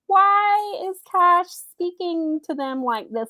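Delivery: high, slow, disbelieving; incredulous disbelief. Retold or imitated. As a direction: ask it like you can't believe your ears. Retelling her reaction to racist promo.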